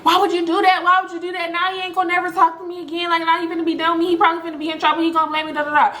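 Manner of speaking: high, fast whiny imitation of a tearful girl; mock crying. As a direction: rattle it off as if crying, half-hearted. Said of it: "She all crying".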